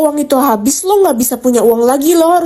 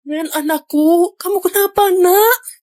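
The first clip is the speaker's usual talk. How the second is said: worried mother; 4 semitones higher, 3 dB quieter, slower than usual. Acted. Mother suddenly worried for Ren.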